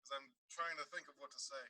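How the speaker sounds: muffled echo like a tunnel; sounding far off in a tunnel. Real, not acted. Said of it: "You sound like you're in a tunnel".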